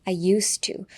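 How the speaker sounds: "used to" run together with an unvoiced s; S sound. Shown as a demonstration. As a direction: say "used to" as "yoos-too". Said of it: "ZじゃなくてSの発音になる". (「used to」のZをSの音に)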